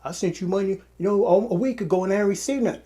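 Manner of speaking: mildly heated mock complaint, quickening; retold gripe with a touch of heat. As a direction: imitate an annoyed customer, picking up speed. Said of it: "it was kinda heated".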